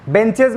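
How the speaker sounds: "बेंचेज" said "ben-chej"; wrong pronunciation. Shown as a demonstration. Teacher rejecting a misreading for students, "बेंचेज" said "ben-chej". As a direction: give "बेंचेज" an e vowel and a j-like end. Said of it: "नहीं होता ये".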